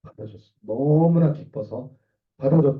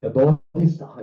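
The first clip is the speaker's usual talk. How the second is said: angry God; 3 semitones higher, 4 dB louder than usual. Acted. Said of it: "화나신 거예요".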